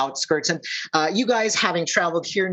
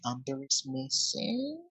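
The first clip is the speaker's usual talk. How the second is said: hushed, slow gossip whisper; very soft, drawn-out whisper; rumor whisper; 11 dB quieter than usual. Acted. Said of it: "whisper campaign going through".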